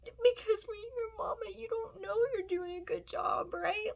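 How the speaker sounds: fighting tears to get it out; crying. Real, not acted. Mom telling other mothers no one praises them, crying. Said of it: "that's not why I'm crying".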